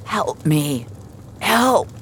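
trapped man crying out for help. Acted. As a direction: plead for rescue, trapped. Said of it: "he cried".

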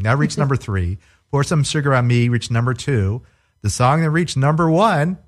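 lightly hinted chart-countdown host; Casey. Acted. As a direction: build up slightly toward the top spot, countdown style. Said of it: "Yes, Casey, tell me".

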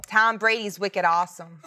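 Boston accent put on for a dare; badly faked Boston fan accent; attempted Boston accent. Shown as a demonstration. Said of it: "try to do a Boston accent".

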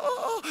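imitating a high sobbing gasp; high whimpering sob, mimicked; mock high sob. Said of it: "hacía así".

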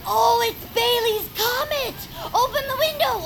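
eager shout about the comet; thrilled call to open the window; excited call. Acted.

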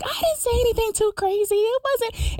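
high, defensive tipsy voice; mock drunk friend. Friend denies insulting bartender, high mock tipsy voice.

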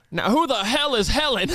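imitating an outraged old customer demanding answers; loud angry old man. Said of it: "he said it loud".

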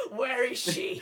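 loud, high comic battle cry; mock vengeful shout. Bitter actor hunting her replacement in the game, mock vengeful shout.

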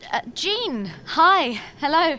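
excited. Acted. Nervous eager phone greeting.

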